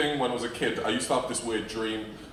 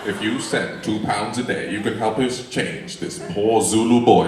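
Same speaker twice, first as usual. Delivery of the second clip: slow, lightly voiced calm narrator; a hint of the soothing charity-ad narrator; Morgan Freeman; 5 dB louder, slower than usual. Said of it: "My voice is calming and soothing".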